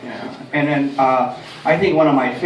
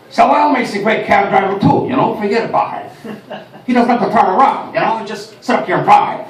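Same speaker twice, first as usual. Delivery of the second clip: loud, higher, raspy movie-star cabbie; Al Pacino impression; 4 semitones higher, 3 dB louder than usual. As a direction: hammer it like a Pacino rant. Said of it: "Al Pacino".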